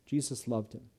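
tender, softly savoured. Shown as a demonstration. Preacher savouring Jesus' love, softly and tenderly. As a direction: linger on it with quiet wonder. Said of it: "I love that".

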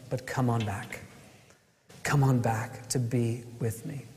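quiet, understated welcome; gentle invitation. Acted. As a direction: invite them back tenderly, voice dropped low. Voicing God's gentle invitation back.

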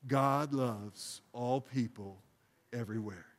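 calm prayerful recitation; slow prayerful phrase. Shown as a demonstration. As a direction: say it with the congregation. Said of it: "Would you say that with me?".

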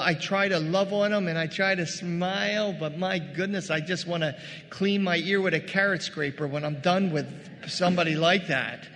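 ordinary delivery

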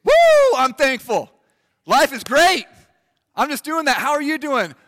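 loud, high, hammed-up gushing; a mock-ecstatic churchgoer gushing thanks; mock bursting joy. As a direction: overdo the cheerful believer, big and bright. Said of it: "Just bursting".

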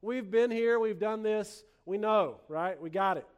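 lightly voiced know-it-all churchgoers, quick at first; mildly mock know-it-all. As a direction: rattle it off quickly, as if bored of being taught. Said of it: "they kind of think".

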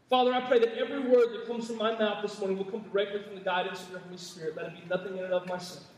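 closing prayer at the start of a sermon. Acted. Pastor leads prayer mid-sermon.

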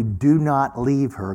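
slow, distinct instruction; very clear command. Retold or imitated. Holy Spirit telling him to stay with her, very clearly. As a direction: spell out each word slowly and clearly. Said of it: "the Holy Spirit says very clearly".

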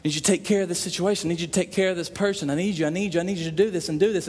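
quick, run-on string of requests; hurried, insistent repetitive prayer; repetitive pleading. Acted. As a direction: rattle off the same plea over and over. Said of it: "it's a constant repetitive comeback".

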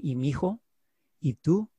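tender question to her son; gentle mother asking. Retold or imitated. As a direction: coax the child to speak. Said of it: "my mother would turn to me and say".

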